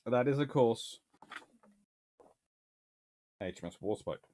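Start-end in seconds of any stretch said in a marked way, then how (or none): none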